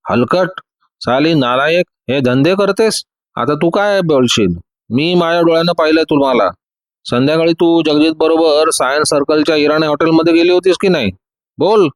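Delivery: ordinary delivery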